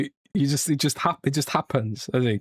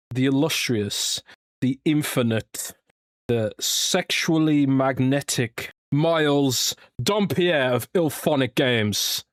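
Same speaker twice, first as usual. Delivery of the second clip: slow, drawn-out guest introduction; hype intro; slower than usual. Acted. Host hyping up his guest, grand slow intro. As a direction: announce each title grandly, taking your time. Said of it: "coming in with the hype beast intro".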